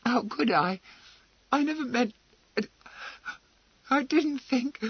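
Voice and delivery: high, flustered protest. A narrator's reading. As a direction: stammer in high alarm. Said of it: "Emily stammered".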